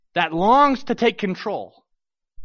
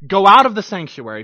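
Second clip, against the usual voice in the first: stern command; 8 dB louder than usual. Acted. Priests confronting the king.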